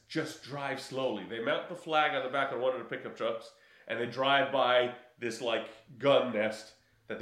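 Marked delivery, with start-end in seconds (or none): 0.1-1.2 low calm order. Retold or imitated. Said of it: "And the Chinese guy says".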